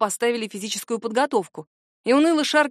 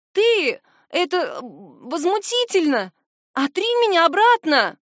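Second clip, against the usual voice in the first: outraged sputtering; 7 semitones higher, 4 dB louder, slower than usual. A narrator's reading.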